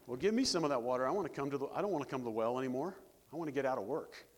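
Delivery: hammed-up eager woman at the well; mock eager asker.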